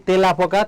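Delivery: তেলাপোকা with a close "e", as "te-lapoka"; spelling pronunciation. Shown as a demonstration. Teacher asking if we ever say it so, spelling pronunciation. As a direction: say তেলাপোকা as written, a plain "e" first. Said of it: "আমরা কি কখনো বলি".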